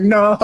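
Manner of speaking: dismayed no. Real, not acted. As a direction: wail no, breaking into a laugh. Dismay at already used voice.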